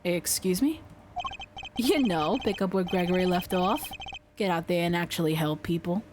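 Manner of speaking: lightly voiced attorney, low and easygoing; casual persuasive attorney. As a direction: make a low, relaxed pitch to a colleague. Voices game character pitching defense.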